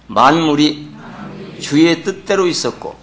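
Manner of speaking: measured reading in short separate phrases; leading scripture reading. Acted. Preacher leading the congregation through a verse, measured read-aloud. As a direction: pause after each phrase for others to repeat.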